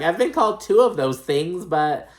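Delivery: high, loud mock protest; imitating Erica. Erica answering Kathy's list, high loud mock protest. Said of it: "And Erica's like".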